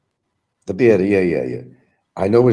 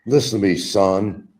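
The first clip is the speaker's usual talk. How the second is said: lightly voiced Southern drawl, a touch higher; a hint of a patronizing Southern elder talking down; mild Southern "son" lecture; 5 semitones higher, slower than usual.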